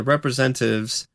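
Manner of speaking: "representatives" with a swallowed syllable, like "represen-tives"; rushed, slurred middle of "representatives"; botched pronunciation. Real, not acted. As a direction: drop the "ta" from "representatives". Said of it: "this word".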